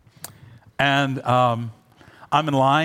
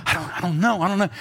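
put-on kids dithering; 4 semitones higher, faster than usual. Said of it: "They're like".

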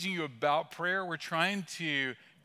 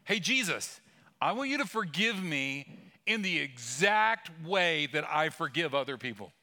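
paraphrase voice. Pretend. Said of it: "Let me translate that for you".

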